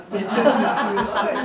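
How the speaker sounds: amused, half laughing; light laughter in the voice. Real, not acted. Amused telling of kids' obedience.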